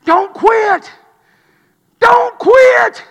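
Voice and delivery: acted high, drawn-out shout; hollering. Buddy in the background calling to a recruit, hollering. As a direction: holler it loudly to someone walking away. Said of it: "somebody in the background's hollering".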